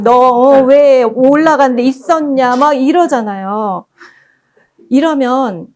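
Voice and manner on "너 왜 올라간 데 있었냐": slow, louder mock scolding; 혼내는 엄마. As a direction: act out a mother telling off her child, drawing it out. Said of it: "엄마가 소리치고 혼내주고". (길게 늘여 혼내는 엄마 흉내)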